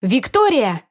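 a breathless glad cry of a name; breathless exclamation. Acted. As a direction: call her name out, short of breath. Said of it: "воскликнула она".

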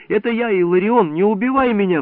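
put-on a boy begging the watchman to spare him; trembling plea. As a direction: beg for your life. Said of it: "взмолился я дрожащим голосом".

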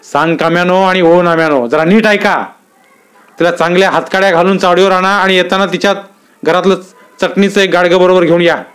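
angry officer snapping orders. A narrator's reading. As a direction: bark the instructions at the two constables. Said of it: "Mandlik साहेब खेकसले".

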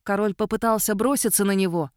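ordinary delivery

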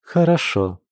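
high, clipped little huff of a laugh; a wry grudging okay; amused snort. A narrator's reading. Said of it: "хмыкнула Маша". (хмыкнув, выше обычного)

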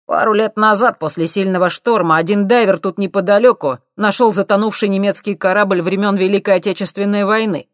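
high loud cheeky lad; cocky punk. A narrator's reading. Thief needling the scientists, loud and cocky. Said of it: "сообщил он".

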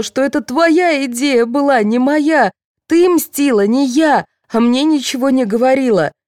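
high, strained distraught voice; sobbing. A narrator's reading. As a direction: pour it out near tears. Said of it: "зарыдала Фёдорова".

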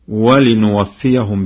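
slow ولنوفيهم said walinuwaffiyahum, with nun; nun prefix. Shown as a demonstration. Teacher naming Warsh's ولنوفيهم, nun for ya. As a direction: sound a nun after the lam in ولنوفيهم. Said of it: "بالنون هكذا".

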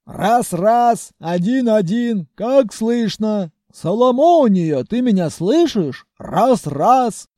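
megaphone check. Acted. Groom testing his megaphone, calling to Соломония. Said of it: "прочищал горло".

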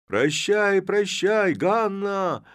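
high, loud call; shouting farewell. A narrator's reading. Young lad calls goodbye to Hanna, shouting. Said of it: "закричало несколько парубков".

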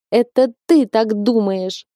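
slow, tearful, with a catch; sobbing. A narrator's reading. Crying bride answers husband comforting her, sobbing. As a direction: sniffle it out, close to tears. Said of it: "всхлипнула я".

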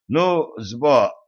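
words cut off by a choke; choking. A narrator's reading. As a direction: choke mid-word. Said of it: "Люцифер поперхнулся и мучительно закашлял".

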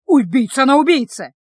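loud accusing yell; man yelling accusations at the sister. Acted. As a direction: bellow the accusation at her. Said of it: "орал Кышек".

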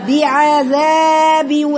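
بعذاب drawn out very slowly, each sound clear; slow demo reading. Shown as a demonstration. Teacher showing Dr Fatema how to read بعذاب, very slow. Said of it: "بنقرأ بعذاب ازاي؟".

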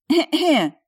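high, loud pointed throat-clearing; loud fake cough. Heroine coughing to get the maître d's attention, loud fake cough. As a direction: cough loudly to grab attention. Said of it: "громко кашляю".

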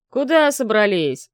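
slow, loud threatening bark; a firefighter barking at intruders; menacing bark. Acted. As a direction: bark it to stop them cold. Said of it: "грозно рявкнул на них другой пожарный".

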